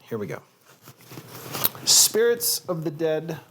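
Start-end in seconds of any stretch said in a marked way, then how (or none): 1.8-3.4 slow, louder Southern drawl; title read with a Southern drawl; Southern accent. Shown as a demonstration. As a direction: announce it slowly in a Southern accent. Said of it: "a Southern accent".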